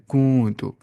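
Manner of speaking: drawn-out nasal "کو", then short "تو"; nasal ikhfa. Shown as a demonstration. Teacher reassures it sounds odd but right, nasal ikhfa. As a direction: hide the noon in a long hum on "کو". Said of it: "لیکن ایسے ہی کرنا ہوتا ہے".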